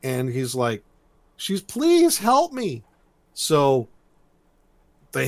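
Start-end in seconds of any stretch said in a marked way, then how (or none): 1.4-2.8 high, drawn-out mock plea; high-pitched damsel in distress, played up; retold crying plea. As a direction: imitate a tearful girl begging, slowly. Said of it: "She's crying".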